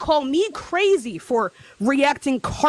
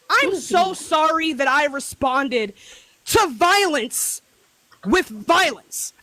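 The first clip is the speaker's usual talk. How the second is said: slow, drawn-out sarcastic apology; mock apology; slower than usual. Real, not acted. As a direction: spell it out slowly, mocking the sorry. Mock apology in a heated argument.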